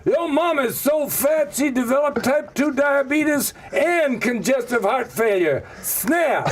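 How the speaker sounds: hammed-up African American accent, high and slow. Shown as a demonstration. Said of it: "can you do an African American accent?".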